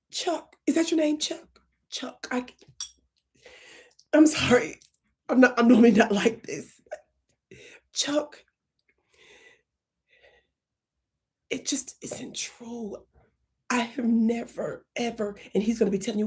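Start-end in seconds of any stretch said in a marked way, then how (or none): 0.1-6.8 mock tearful plea. Shown as a demonstration. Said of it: "demo of tearful plea". 7.9-13.0 slow hushed whisper; whispered plea. Shown as a demonstration. Comedian demonstrating whispered plea to manager Chuck. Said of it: "demo whispered plea".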